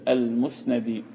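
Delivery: المسندي said al-musnadi, with an "a" after the nun; fatha on the nun. Shown as a demonstration. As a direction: give المسندي an open "na" before the final "di". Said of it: "بفتح النون المشددة".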